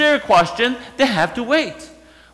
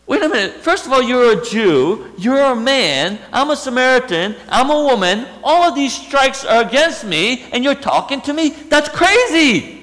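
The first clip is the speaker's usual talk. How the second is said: amazed woman; 4 semitones higher than usual. Acted.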